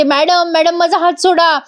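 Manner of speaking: a retold yelp, not full volume; mock cry of pain. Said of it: "मोठ्याने ओरडायला लागते". (हात सोडण्यासाठी हलकीशी किंचाळी)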